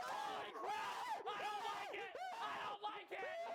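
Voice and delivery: high shouted panic; frightened outburst. Real, not acted. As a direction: recoil from the scare. Reporter frightened by actors.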